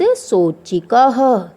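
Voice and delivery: सोचिकह drawn out slowly in syllables; sounding out. Shown as a demonstration. Teacher gives children the whole word, slow syllabic सोचिकह. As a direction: stretch सोचिकह, voicing the final ह. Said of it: "क्या बन गया ये पूरा शब्द".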